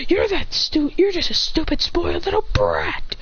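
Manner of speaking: whispered threat rising to a cry; furious boy threatening the bully; vicious whisper. Acted. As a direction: spit it out, slowly.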